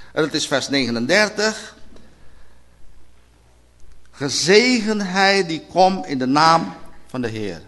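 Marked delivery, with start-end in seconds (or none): 4.1-7.6 slow solemn reading. Shown as a demonstration. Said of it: "Die uitspraak moeten ze uitspreken".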